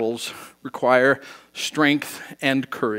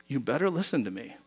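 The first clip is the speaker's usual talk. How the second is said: low warning; 4 semitones lower, 9 dB quieter, faster than usual. Retold or imitated. Parent warning kid quietly.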